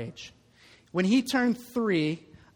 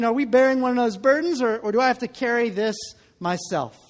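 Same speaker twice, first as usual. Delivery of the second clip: rising, louder and faster, mock bewildered; exasperated rhetorical question; 5 semitones higher, 5 dB louder than usual. Preacher to congregation, voicing their confusion, worked-up and louder. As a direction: throw the puzzle at them, half-laughing. Mock dilemma about carrying burdens.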